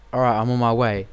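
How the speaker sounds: lightly imitated American game soldier; American accent. Gamer mimics the deploy voice, in a light American accent. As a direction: put on a slight American accent. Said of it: "He sounded American".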